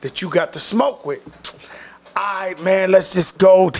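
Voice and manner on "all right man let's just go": sudden loud call to go; imitating a shouted let's go; mock shout. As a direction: bark it at the crew to move. Pushing crew to leave concert.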